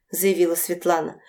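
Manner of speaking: ordinary delivery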